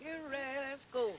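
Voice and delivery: high Gullah game call. Real, not acted. Calling start of shout game.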